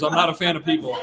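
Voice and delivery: tossed off again with a laugh, lighter; laughing repeat. Real, not acted. Trainer repeats his joke to the audience, laughing. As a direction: repeat "I'm not a fan of people" casually through a chuckle. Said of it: "I've worked at Park City for twenty years".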